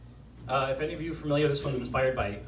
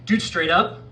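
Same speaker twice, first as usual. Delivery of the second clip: lightly played, fed-up dude bro, pitched up; 2 semitones higher, 4 dB louder than usual. Poet calling out toxic masculinity, as dude bro. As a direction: channel an exasperated bro, lightly hammed-up. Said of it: "channel your inner dude bro".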